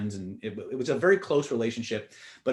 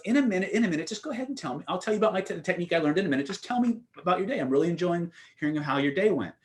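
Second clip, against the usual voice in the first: higher-pitched mock brush-off; playful stalling; 6 semitones higher, faster than usual. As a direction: imitate someone eagerly putting off a question. Retold man puts off her question.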